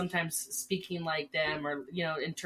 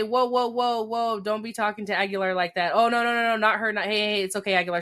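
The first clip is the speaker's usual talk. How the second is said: inmates defending; 3 semitones higher, 5 dB louder than usual. Retold or imitated. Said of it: "they're gonna say".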